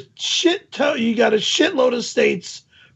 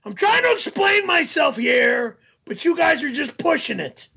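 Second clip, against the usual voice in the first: heated; 3 semitones higher than usual. Real, not acted. Still heated after tirade.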